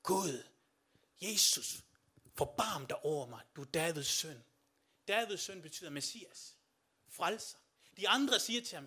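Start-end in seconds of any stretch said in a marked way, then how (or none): 0.0-4.4 calling out to Jesus. Retold or imitated. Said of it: "han råber ud".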